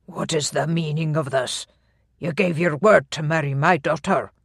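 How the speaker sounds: lightly voiced stern Scottish laird; a hint of an indignant clan chief; older laird voice.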